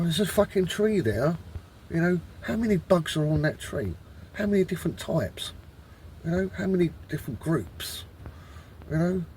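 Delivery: real exasperated rant, pitched a little up; annoyed. Real, not acted. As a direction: keep demanding answers, worked up and irritated. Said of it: "I'm getting annoyed".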